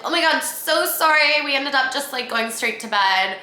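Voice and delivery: hammed-up apology, starting high and easing down; mock apology. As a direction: gush a fake "so sorry". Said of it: "I texted him being like".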